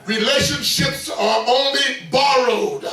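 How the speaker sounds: slow preaching shout. Shown as a demonstration. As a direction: proclaim each word slowly. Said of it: "Y'all ain't hear me today?".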